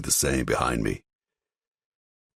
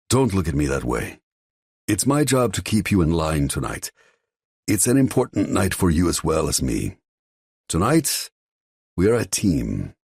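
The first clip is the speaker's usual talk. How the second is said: firm father; 5 semitones higher than usual. Acted. Father leans in to steady his son, firm. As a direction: keep him in line, firmly.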